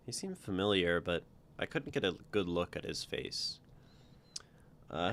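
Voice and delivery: steady read-aloud narration with voiced lines; storyteller voice for a first-person tale; story reading. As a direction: read your story out to the group. Author reads own story aloud.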